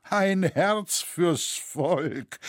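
high, very drawn-out incredulous echo; stretched-out, head-shaking echo; head-shaking disbelief. A narrator's reading. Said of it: "fuhr Loy kopfschüttelnd fort".

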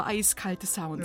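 slow, shivering spooky cold voice. Acted. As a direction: shiver out the words. Ums Zittern in der Musik.

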